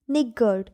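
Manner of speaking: निगर्ड said short, NIG-ard, not निगार्ड; niggard pronounced. Shown as a demonstration. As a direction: say निगर्ड with a short second vowel. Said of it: "निगार्ड नहीं पढ़ना है". (निगर्ड छोटे स्वर के साथ)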